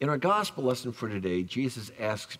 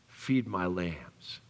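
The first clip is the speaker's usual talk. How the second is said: slow Jesus; 5 semitones lower, much slower than usual. Retold or imitated. Jesus answering Peter.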